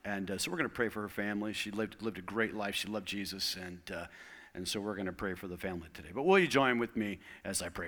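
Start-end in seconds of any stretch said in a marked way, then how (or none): 0.0-6.1 breaking bad news. Real, not acted. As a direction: let the voice sink as you share the loss. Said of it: "I have some sad news".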